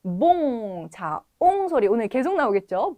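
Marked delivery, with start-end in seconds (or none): 0.0-0.9 봉 drawn out with a nasal ong; model pronunciation. Shown as a demonstration. Teacher shows students the ong sound, model pronunciation. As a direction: hold 봉 long on the ong sound. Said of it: "발음 한번 보겠습니다".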